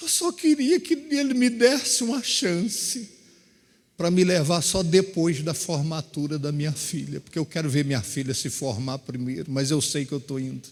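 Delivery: acted tearful weeping, crying through the words. Retelling her words, said while crying, about her daughter's graduation: imitating someone crying while talking. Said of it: "Aí ela chorando, chorando".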